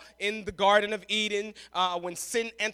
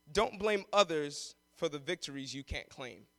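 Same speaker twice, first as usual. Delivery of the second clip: slow point; 7 semitones lower, 4 dB quieter than usual. Shown as a demonstration. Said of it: "Point number one".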